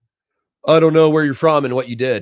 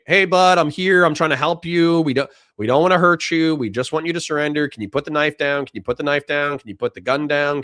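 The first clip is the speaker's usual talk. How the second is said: soothing, higher de-escalating cop; calm cop voice; 4 semitones higher than usual. Acted. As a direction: talk him down gently, like a cop with a knife suspect. Officer talking down armed suspect.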